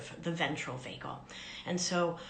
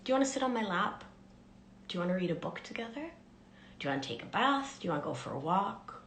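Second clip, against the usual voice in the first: tender; much faster than usual. Shown as a demonstration. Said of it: "I will ask these questions with tenderness".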